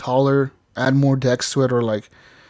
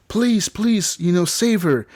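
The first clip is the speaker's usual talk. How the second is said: higher-pitched imitation of begging; mock frantic pleading; 7 semitones higher, slower than usual. Player voicing the mom begging the android, mock desperate plea. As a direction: plead like a panicked mother, lightly acted. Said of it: "She's, like, freaking out".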